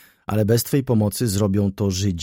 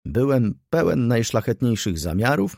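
higher, lightly put-on voice of wounded innocence; Maruszewicz, tearful; 4 semitones higher, 3 dB louder than usual. A narrator's reading. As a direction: plead your noble intentions, mildly whining. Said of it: "Aż rozpłakał się".

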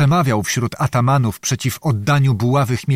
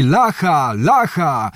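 calling out; 3 semitones higher, slower than usual. Acted. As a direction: demand the prisoner, a touch of a shout. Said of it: "Jedni wołali".

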